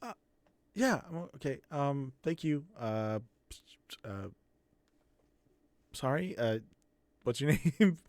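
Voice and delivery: put-on halting, polite kid full of ums; awkward grateful kid. Kid thanking Naya as they part, awkward and hesitant.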